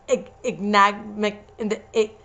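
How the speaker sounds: stumbling over enigmatically; fumbled word. Real, not acted. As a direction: trips over "ignagmic-" trying to say enigmatically. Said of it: "I can't".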